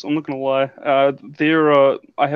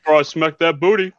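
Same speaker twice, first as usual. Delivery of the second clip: Yogi Bear voice; 4 dB louder, faster than usual. Pretend. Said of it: "I'm a big fan of Yogi".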